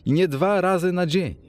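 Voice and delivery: high-pitched, impassioned protest; crying out. A narrator's reading. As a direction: exclaim in anguish, insisting at every phrase. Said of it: "ale Poole krzyknął". (wzburzony okrzyk, wysokim głosem)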